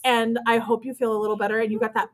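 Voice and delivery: soft, calm, kindly wishing well; sweetly calm. Retold or imitated. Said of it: "I was like".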